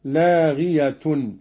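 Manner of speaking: لاغية recited "laghiyatun" as it joins the next word; connected reading. Shown as a demonstration. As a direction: say لاغية joined on in the nominative, slowly. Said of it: "وإذا وصل".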